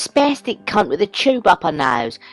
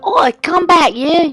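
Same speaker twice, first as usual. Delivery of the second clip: calling out; 6 semitones higher, 4 dB louder than usual. Acted. Chasing the woman, calling out.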